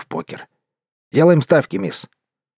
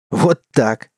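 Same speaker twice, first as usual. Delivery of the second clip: mocking mimicry. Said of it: "передразнил я".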